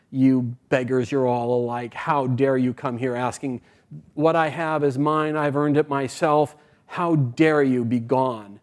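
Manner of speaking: slow, emphatic mock indignation; a storyteller's indignant rich man; indignant rebuke. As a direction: rebuff beggars with measured scorn, mildly acted. Rich man turns away beggars.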